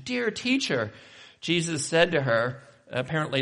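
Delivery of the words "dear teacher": high, fond form of address; affectionate endearment. Acted. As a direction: say it with intimate affection, pitched up high. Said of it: "term of endearment, of, of intimacy and affection".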